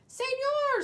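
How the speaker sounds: high squawk of a bird; a toucan squawking at the man. Acted. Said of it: "squawked the toucan".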